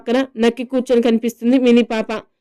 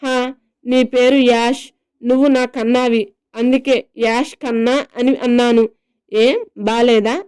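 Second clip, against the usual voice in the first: drawn-out sing-song. Acted. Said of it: "అని సాగదీస్తూ రాగం అందుకుంటుంది".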